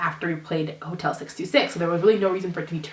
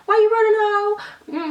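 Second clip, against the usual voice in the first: much higher, drawn-out, louder taunt; mock taunt; 5 dB louder, much slower than usual. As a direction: stretch it out like a squealing dare. Mock taunt to ghost, repeated.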